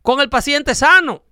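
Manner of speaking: voicing an aggrieved industry boss; indignant complaint. Insurer complaining to tobacco industry.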